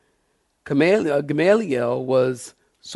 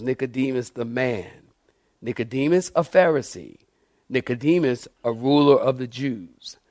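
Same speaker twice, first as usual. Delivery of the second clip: movie trailer voice; 3 semitones lower, 4 dB quieter than usual. Shown as a demonstration. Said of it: "That sounds like a movie trailer".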